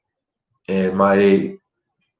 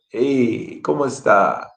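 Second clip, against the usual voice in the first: with feeling; 3 semitones higher, slower than usual. Shown as a demonstration. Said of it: "Put some feeling in it".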